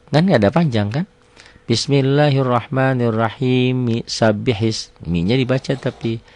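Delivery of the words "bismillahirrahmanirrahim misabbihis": slow joined recitation. Shown as a demonstration. Teacher repeats the linked reading, slow chant. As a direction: chant Bismillahirrahmanirrahim into Misabbihis slowly. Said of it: "kalau mau wasol".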